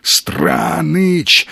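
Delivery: a choked, rasping gasp of a name; hoarse wheeze. A narrator's reading. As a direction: force the name out through a wheezing throat. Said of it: "захрипел он".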